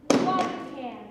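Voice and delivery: muffled line. Acted. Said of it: "you can't quite make out what she says".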